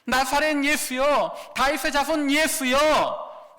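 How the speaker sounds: slow, stretched crying out; drawn-out cry. Acted. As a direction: call each name long, as if across a crowd. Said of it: "소리를 지르기 시작해요".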